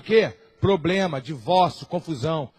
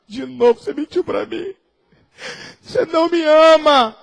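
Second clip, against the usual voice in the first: a hint of a hurt woman, higher; accusing Delilah; 3 semitones higher, 3 dB louder than usual. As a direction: reproach him like a wounded lover. (Dalila magoada acusando Sansão)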